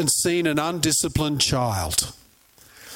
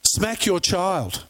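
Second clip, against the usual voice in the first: mildly indignant mock scolding; lightly acted outrage, drawn out; offended; slower than usual. Offended woman scolding a mother in the shop, mildly indignant. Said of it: "was absolutely offended".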